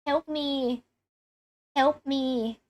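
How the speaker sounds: help me said with a light Thai accent; a hint of a Thai accent on help me; mild Thai-accented plea. Shown as a demonstration. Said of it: "So that's my Thai, my, my Thai accent".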